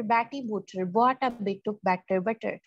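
slow reading. Shown as a demonstration. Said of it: "बी का sound".

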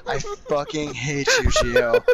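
high furious yell; angry yell. Real, not acted. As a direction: shriek the name in anger. Raging at teammate.

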